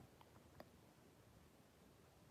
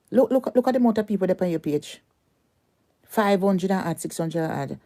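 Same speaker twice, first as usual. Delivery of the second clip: higher, faster mocking count; jeering taunt; 5 semitones higher than usual. Real, not acted. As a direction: sneer at the small number.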